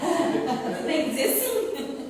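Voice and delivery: loud, slow, laughing delivery. Real, not acted. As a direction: say it loudly through laughter. Joking with the group, laughter heard.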